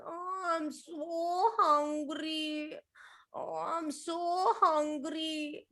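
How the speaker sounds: slow, drawn-out moan of a hungry elephant. Acted. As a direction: stretch out the so like a starving elephant. Hungry elephant voiced in story.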